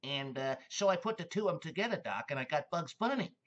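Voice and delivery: lightly voiced Mel Blanc, rising into Bugs; Mel Blanc quote. Retelling Mel Blanc's Bugs Bunny story, light imitation. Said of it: "he talks about".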